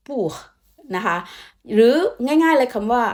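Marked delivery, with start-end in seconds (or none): 0.1-0.3 "pour" with a little air at the back; short, falling "pour" with air after it; airy final R. Shown as a demonstration. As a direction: end "pour" on a breathy French R. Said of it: "มี air ข้างหลังหน่อยนึง ก็แบบ".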